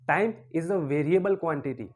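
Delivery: each word laid out slowly like a warning; slow and weighty. Acted. Teacher slowly warns the laughing cathode, weighty and deliberate. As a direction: spell out the lesson word by word.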